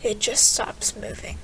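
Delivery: slow breathy whisper. Acted. Closing the poem's final line, slow whisper. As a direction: let the last line die in a whisper. End of eerie poem.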